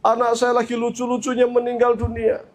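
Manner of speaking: lightly acted sobbing grief; mock tearful mother. Mother tells Prophet Nuh of her dead child, tearful. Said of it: "Sampai terseduh-seduh begitu".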